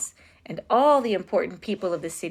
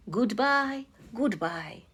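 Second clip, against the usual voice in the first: fond goodbye; 3 semitones higher, 4 dB quieter, slower than usual. A narrator's reading. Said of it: "he said".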